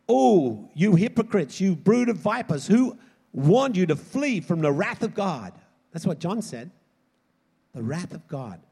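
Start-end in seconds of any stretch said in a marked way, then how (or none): 0.1-5.5 loud, slow denunciation with raised pitch; thundering rebuke. Acted. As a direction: thunder it out like a prophet. Preacher voicing John's rebuke.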